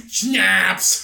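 attempted Austrian-accent one-word punchline; lightly mocked Austrian accent; Arnold Schwarzenegger. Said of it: "you know how he talks".

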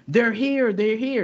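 high, loud panicked scream; retold scream. Woman in the dream screaming a warning, panicked retold scream. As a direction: shout the warning like she's terrified. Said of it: "she started screaming".

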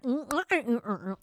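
humming alien gibberish, rising first then dropping; mock alien language. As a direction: pretend to speak an alien tongue in hums. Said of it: "That was my alien language".

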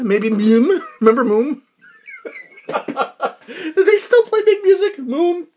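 giggling through the words; laughing. Real, not acted. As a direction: laugh while you ask. Joking, laughing about Moom.

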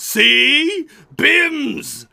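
high, very loud creature cry; creature yelling. Acted. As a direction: shriek it as an excited in-game creature. Game master voices yelling creature.

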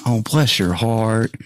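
slow, sugary bless your heart; mock sweet pity. Prankster giving herself away, mock sweet pity. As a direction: drawl it out like fake southern sympathy. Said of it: "I went".

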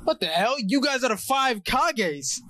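hyped retelling of Madara's taunt; excited kid rambling. Retold or imitated. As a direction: pitch climbing as the taunt escalates. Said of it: "Madara goes".

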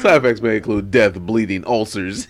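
TV ad side effects read; drug commercial voice. Pretend. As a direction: rattle it off like a pharma ad. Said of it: "You sound like an R X commercial".

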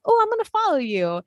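high bright quote; chirpy sales lady; cheery saleswoman voice. Retold or imitated. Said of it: "she was like".

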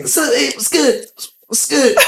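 butter him up with a goofy hello; imitating a buddy. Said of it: "I do not sound like that".

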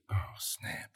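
whispered aside; hushed dismay. Acted. Kid realizing he revealed his friend's name, whispering. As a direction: let it out under the breath.

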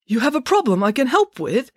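high, eager question; light up with glee, pitched high; gleeful. A narrator's reading. Doctor offered a chance to help, gleeful. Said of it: "now positively gleeful".

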